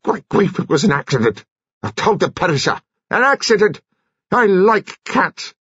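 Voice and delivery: high, agitated, tearful protest; strained, upset outburst; distraught protest. A narrator's reading. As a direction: plead innocence, pitched right up. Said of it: "His eyes were misted and his lips trembled".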